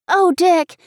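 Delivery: high, loud exclamation; distressed cry. A narrator's reading. Girl answering Dick's reproach, crying out. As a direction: cry out in protest, pitch leaping up. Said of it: "I cried".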